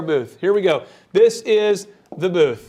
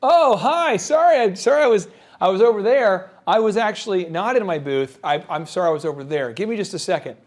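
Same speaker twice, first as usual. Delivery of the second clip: flustered vendor. Retold or imitated. Vendor returning late to the booth, mild mock fluster. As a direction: rush in apologizing, a touch flustered. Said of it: "here's their strategy".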